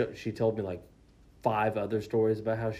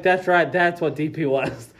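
high, loud retold recollection; exclaimed realization; 6 semitones higher, 10 dB louder than usual. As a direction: blurt out the sudden memory loudly. Retelling sudden memory of term.

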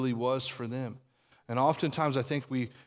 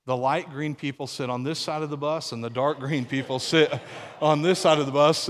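laughing through the punchline; louder, laughing as he delivers it; cracking up at his own joke; 5 dB louder than usual. Real, not acted. Punchline of the boy's quote.

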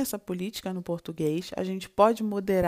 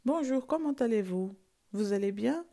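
polite greeting; 2 semitones higher than usual. Shown as a demonstration. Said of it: "você pergunta pra pessoa como ela tá".

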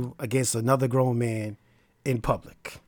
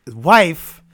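air quotes; 8 dB louder than usual. Shown as a demonstration. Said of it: "and I'm using air quotes".

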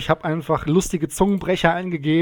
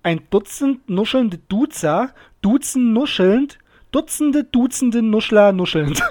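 slow, higher, each phrase of "Dutzend nuschelnde Duzer" set apart; demonstrated phrasing; 3 semitones higher, 3 dB louder, slower than usual. Shown as a demonstration. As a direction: show how "Dutzende Nuschler nuschelnd" should be grouped, slowly. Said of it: "ich würde es so sagen". (langsam und deutlich gegliedert vorgesagt)

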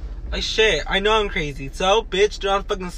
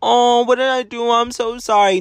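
mocking fake apology; 4 semitones higher than usual. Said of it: "people to be like".

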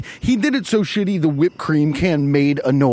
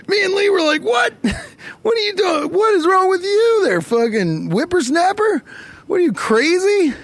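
mock outraged shout. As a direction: yell it like a cranky old man scolding. Mock outraged reaction, shouting high.

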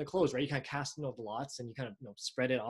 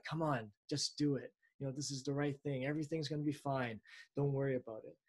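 soothing tempter voice; 5 dB quieter than usual. Retold or imitated. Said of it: "kind of in a soothing voice".

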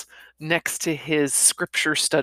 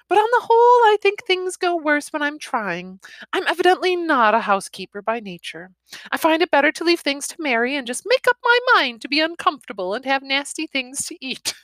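put-on higher, carefree young wife; breezy young wife; 10 semitones higher than usual. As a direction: laugh off the housework lightly. Griselda voiced higher, lively.

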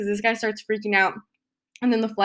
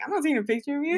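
softer, slightly raised denial; subdued retold denial; 4 semitones higher, 6 dB quieter, much faster than usual. Retelling her answer to the accusing passenger, softer denial. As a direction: play down the denial, softly. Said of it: "I, like, instantly freak out".

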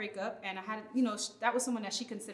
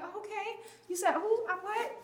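higher, startled mock disbelief; taken aback; 9 semitones higher than usual. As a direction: act caught off guard by a toddler. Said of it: "And I'm like".

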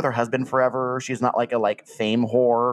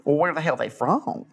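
put-on Southern accent. Customer complains to the shop about missing tigers, in a Southern accent. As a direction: lay the Southern accent on thick, like a trailer-park customer. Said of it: "That was an amazing Southern accent".

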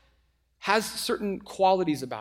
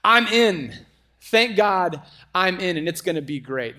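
smug insider; 5 dB louder than usual. Retold or imitated. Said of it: "you sense the".

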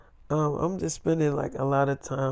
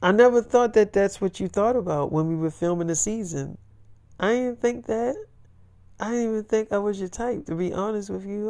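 put-on girlfriend voice; 6 semitones higher than usual. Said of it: "She's like".

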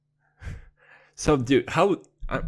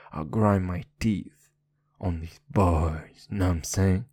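deep rapper voice; 5 semitones lower than usual. Acted. Slow deep delivery.

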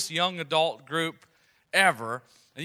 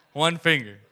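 put-on toddler voice; 7 dB louder than usual. Toddler's answer retold.

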